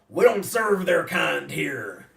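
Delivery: loud, exaggerated mock voice. Retelling what the droids are told in the bar: imitating a racist-sounding voice. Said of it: "a very racist-y sounding voice".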